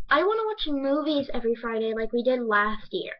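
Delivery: lightly voiced annoying girl; annoying classmate. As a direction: mildly mimic an annoying classmate whining for movies. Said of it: "this girl who's horribly, horribly annoying".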